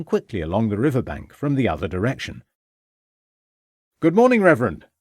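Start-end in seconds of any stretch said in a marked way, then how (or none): 4.0-4.9 high, loud hailing greeting; calling out. A narrator's reading. Ravenscroft hails the Reverend on the river bank, calling out. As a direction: call it out to someone along the path. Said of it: "called out Ravenscroft".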